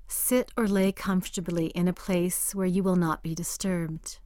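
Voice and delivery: breathy whispered instruction. Acted. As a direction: hush it like a spa guide. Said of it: "opens the meditation".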